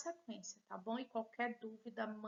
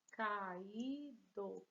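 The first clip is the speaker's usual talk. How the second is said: calm syllable-by-syllable reading; syllable split; 2 semitones lower than usual. Shown as a demonstration. Teacher splitting a word for pupils, syllable by syllable. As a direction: separate the vowels as you say it. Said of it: "Nosso encontro vocálico se separou".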